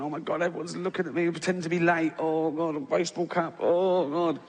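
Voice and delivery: horrified. Acted. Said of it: "you're sort of horrified".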